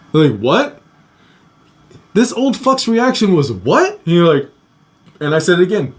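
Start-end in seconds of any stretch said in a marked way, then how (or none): 0.4-0.8 rising, higher-pitched "what?"; mock disbelief. Stunned reaction to the ban. 3.5-4.0 imitated baffled "what?", pitched up; mock incredulous question; disbelief. Old man's reaction to ban.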